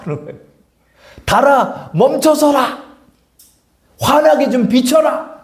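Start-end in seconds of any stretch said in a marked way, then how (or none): 1.2-5.4 higher, slow drawn-out command "달아 멈춰서라"; slow proclamation. Retold or imitated. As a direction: stretch each word as a solemn decree. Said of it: "라고 선포하는 거예요".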